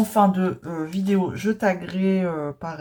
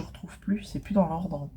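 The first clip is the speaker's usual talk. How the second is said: whispered aside; 6 dB quieter than usual. Real, not acted. Muttered aside while sorting.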